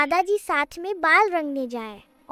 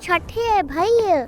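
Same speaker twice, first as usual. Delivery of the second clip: calling after someone. Acted. Little sister calls after her brother, distressed calling. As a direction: call after them, stretching the vowels.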